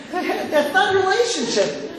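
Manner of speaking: high-pitched, laughing delivery. Real, not acted. Rabbi dismissing the once-a-year greeting, amused and laughing. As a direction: say it through a chuckle. Still laughing at his joke.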